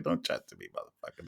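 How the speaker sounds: low, whispered muttering; muttered under breath. Retold or imitated. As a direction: mutter it through your teeth. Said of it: "I'm just like".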